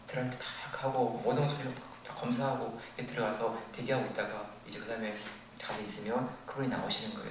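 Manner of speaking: ordinary talk, nothing marked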